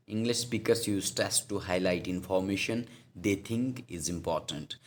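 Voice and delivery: slow, deliberate dictation of a textbook line; slow definition read-out. Shown as a demonstration. English teacher reading a definition to students, slow and deliberate. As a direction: read it out slowly for students to note down.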